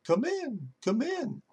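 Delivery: high, soft squawky "come in"; parrot voice. Acted. Parrot calling the pastor in from the kitchen, squawky. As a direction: call it out like a parrot.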